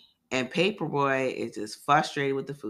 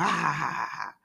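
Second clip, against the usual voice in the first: scary laugh; 3 semitones higher than usual. Retold or imitated. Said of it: "started laughing like, like, real scary".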